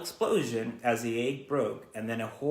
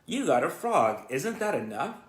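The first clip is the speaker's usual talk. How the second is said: commanding; 3 semitones higher than usual. Acted. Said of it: "commanded Fern".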